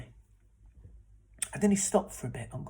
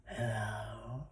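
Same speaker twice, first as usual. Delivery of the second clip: creepy greeting; 4 semitones lower than usual. Acted. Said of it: "he had an awful creepy voice".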